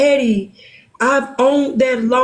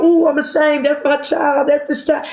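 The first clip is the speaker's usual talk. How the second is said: mock shame. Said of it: "made me go".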